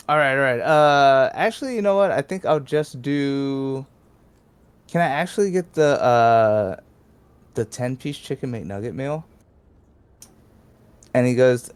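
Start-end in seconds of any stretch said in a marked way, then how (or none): 0.1-9.3 dithering, pitched up at the start; indecisive customer. Retold or imitated. Prank customer switching orders at the drive-thru, mock indecision. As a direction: keep stalling, dragging out the words.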